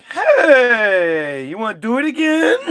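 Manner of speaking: horny and hopeful; high fast come-on; eager Adam. Retold or imitated. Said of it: "Adam's like".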